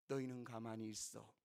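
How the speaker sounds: low, soft stilling voice; hushed command. Retold or imitated. Moses telling the people to be still, hushed. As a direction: drop low and quiet to still them.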